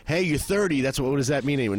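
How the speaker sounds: high mocking voice cheering someone turning thirty; mock birthday cheer.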